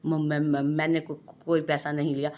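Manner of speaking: panic, tripping over every word; scared wife stammering before angry husband; frightened stammer. Acted. Terrified wife stammering denial.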